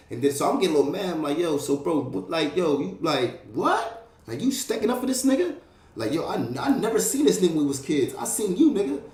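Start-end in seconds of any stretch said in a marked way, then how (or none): 1.4-5.6 incredulous. Retold or imitated. Retold disbelief at a friend.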